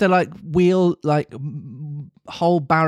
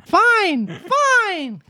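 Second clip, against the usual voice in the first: high laughing cry; high joyful boy. Acted. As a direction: cry it out dancing with joy. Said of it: "cried Pinocchio, dancing about with joy".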